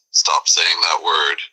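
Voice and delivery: slow, whispered menace; murderous intent. Acted. Angry man threatening in a slow whisper. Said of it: "with a touch of murderous intent".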